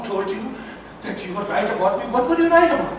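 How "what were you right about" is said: high, loud angry questioning; outraged, raised-voice interrogation; furious demand. Acted. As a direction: shout the questions at your accuser. Acted quarrel, accused father demands answers.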